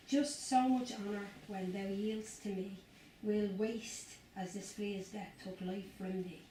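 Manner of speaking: put-on slow, measured verse in own accent; poem reading. Reading John Donne aloud for a young audience, slow poem recital. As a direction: recite it slowly, pausing between lines.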